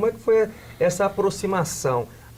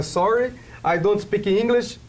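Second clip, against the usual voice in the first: put-on slow, higher-pitched Brazilian-accented English; mock a beginner's Brazilian accent in English, word by word; 4 semitones higher than usual. Host jokes about what everybody says, in halting Brazilian-accented English. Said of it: "não era com esse sotaque".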